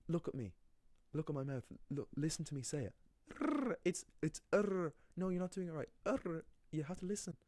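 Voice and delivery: high, mocking impatient teacher voice. Mocking the Spanish teacher who just repeats R, high and impatient. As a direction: parody a teacher who only says listen.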